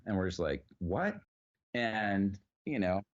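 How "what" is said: stunned what. Retold or imitated. Stunned by graveyard offer.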